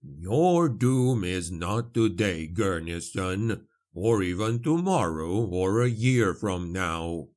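measured, unhurried character voice; solemn explanation, lightly in character; lightly voiced priest. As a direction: weigh each phrase gravely.

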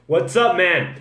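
ordinary talk, nothing marked

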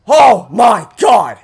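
slow, loud cry of relief; elated shout. Real, not acted. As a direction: shout your relief to the sky.

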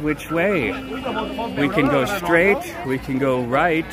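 slow, portentous guide offering the paths; dramatic quest guide. Acted. Streamer playing a mock quest guide to the friend, slow and grand. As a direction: lay out the roads like an RPG oracle. Dramatic choose-your-path bit.

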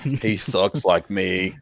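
deep gravelly voice. Acted. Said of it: "in, like, a, a deep, gravelly voice".

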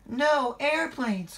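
very high, slow, loud wail; crying out. A narrator's reading. Thomas dismayed at the closed airport, crying out. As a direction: exclaim it in high-pitched dismay. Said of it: "cried Thomas".

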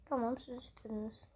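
under-the-breath whispered threat. Real, not acted. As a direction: whisper it darkly. Mutters to the game players.

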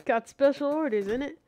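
put-on half-committed British accent; hammed-up British bloke, soon abandoned. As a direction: play a British game character, casually. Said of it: "I'm not doing the British accent".

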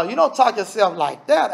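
normal talking voice

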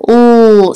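"L" drawn out as "ull", not "el"; letter sound. Shown as a demonstration. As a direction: hold the word-ending sound of "L". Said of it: "is that L sound".

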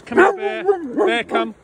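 high, slow, stretched call across the field; calling the dog. Real, not acted. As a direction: sing it out to bring Bear back.

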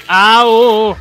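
loud high shriek of fright; panicked yelp; startled scream. Real, not acted. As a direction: scream as it jumps out. Startled by monster.

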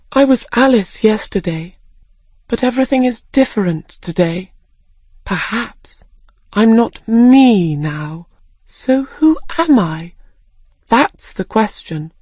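put-on girl questioning who she is; puzzled Alice. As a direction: muse aloud, confused.

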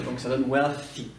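wealthy avec TH soufflé, langue entre les dents. Shown as a demonstration. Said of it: "tu sors ta langue, tu, euh, fais passer l'air". (wealthy, TH sourd bien marqué)

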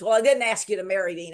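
put-on fast, sharp put-down to a girl; snappy retort. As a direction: toss it back at her, fast and cutting. John snubs Cynthia, shoves her off.

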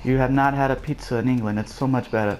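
amateur British impression, measured and even; British accent. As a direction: chat in a put-on British accent. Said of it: "I'll stop doing my British impression".

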